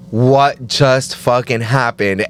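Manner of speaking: slow, stunned and dazed; dazed disbelief. Retold or imitated. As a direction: drag it out, totally lost. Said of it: "you're like".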